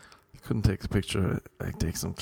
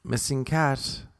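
slow, solemn reading; mock sad announcement; poster read slowly; 3 semitones higher, slower than usual. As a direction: read the headline gravely. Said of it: "It was like".

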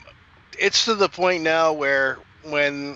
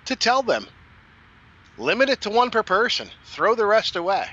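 emphatic; 5 semitones higher than usual. Real, not acted. Emphatic advice to fans.

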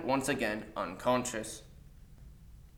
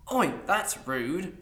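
slow drowsy grumble; just woken, groggy and slow; sleepy; 5 semitones higher, much slower than usual. Acted. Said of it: "before sitting up and yawning".

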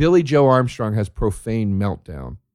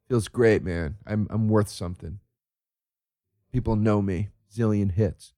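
mock smug YouTuber; 3 semitones lower, 4 dB quieter than usual. Mock YouTuber, low and quiet.

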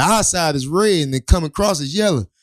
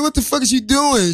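retold alarm; 8 semitones higher than usual. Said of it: "I was like".

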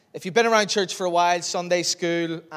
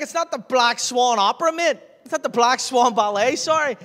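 indignant retort; 8 semitones higher, 6 dB louder than usual. Retold or imitated. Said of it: "I was like".

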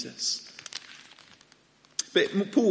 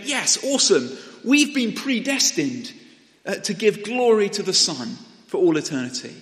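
higher, louder voice of a happy crowd; delighted cheering; 6 semitones higher, 5 dB louder than usual. Acted. Preacher voices delighted church members hearing the letter, cheering. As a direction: exult like a thrilled congregation. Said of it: "sort of cheering and whooping".

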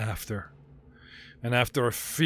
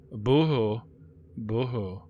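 mock boo-hoo; slower than usual. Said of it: "My shitty life story".

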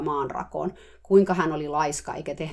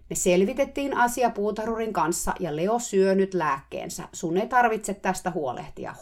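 shouting; 4 semitones higher, 3 dB louder than usual. Retold or imitated. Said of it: "mä huusin uudelleen".

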